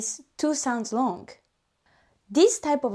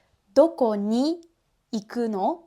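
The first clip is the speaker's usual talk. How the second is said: word by word. Shown as a demonstration. Teacher breaking the question word by word. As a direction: say each word separately. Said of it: "don't break down word by word".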